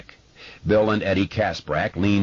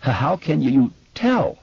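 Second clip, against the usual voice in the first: stutter; 9 semitones higher, 4 dB louder than usual. A narrator's reading. Bill stutters.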